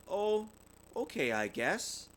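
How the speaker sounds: slow, sighing and a bit let down; a mild sigh, unbothered but glum. A narrator's reading. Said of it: "sighed Sister".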